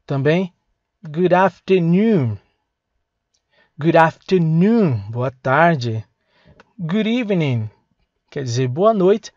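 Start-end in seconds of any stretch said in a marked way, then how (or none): 1.0-2.4 slow, clear "good afternoon"; slow model phrase. Shown as a demonstration. Teacher modelling "good afternoon" slowly for students. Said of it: "vai repetindo". 3.8-5.1 slow, clear repeat of "Good afternoon"; slow model repeat. Shown as a demonstration. Teacher repeating "Good afternoon" slowly for students. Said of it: "vai repetindo".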